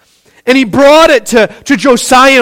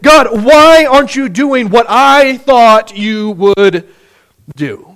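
fervent plea; 2 semitones higher than usual. Retold or imitated. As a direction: press God with every why. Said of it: "He said".

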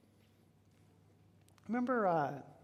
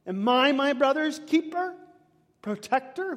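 loud challenge; 7 semitones higher, 5 dB louder than usual. Acted. Preacher repeating Cain's line.

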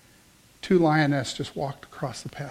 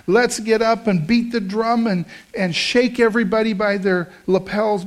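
rousing; 4 semitones higher, 3 dB louder than usual. Acted. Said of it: "if we yell".

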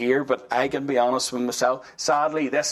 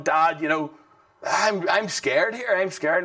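put-on scared child; 4 semitones higher than usual. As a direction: play the frightened boy calling to his dad, lightly. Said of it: "he was scared".

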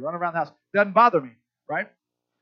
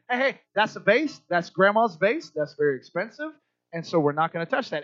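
gentle explaining. Retold or imitated. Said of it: "my wife does this a lot better".

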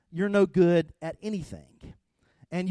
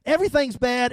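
grumpy; 6 semitones higher, 7 dB louder than usual. Retold or imitated. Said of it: "I'm irritated".

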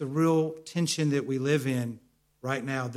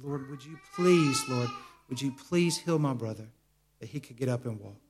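tearful prayer. Retold or imitated. Preacher retelling his prayer over the man in the wheelchair, tearful. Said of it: "And I said".

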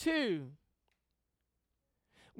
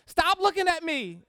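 put-on louder, higher childish whine; whiny kid; 6 semitones higher, 6 dB louder than usual. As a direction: snap it like a touchy kid. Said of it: "This is Job".

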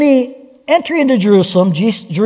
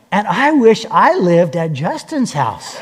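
put-on wistful child; 3 semitones lower, slower than usual. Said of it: "he added on".

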